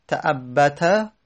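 تعبت drawn out very slowly, syllable by syllable; spelled out slowly. Shown as a demonstration. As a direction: stretch out تعبت slowly like a teacher. (تعبت را خیلی آهسته و هجا به هجا بکش)

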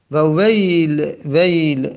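ویل said slowly, then repeated; example word. Shown as a demonstration. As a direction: announce ویل clearly for the class. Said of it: "ویل باز هم همینطور".

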